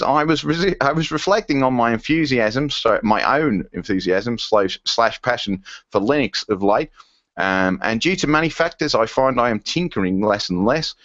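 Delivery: lightly put-on Australian accent; comic stab at an Australian voice. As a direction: attempt a silly Aussie accent. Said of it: "to do another stupid accent".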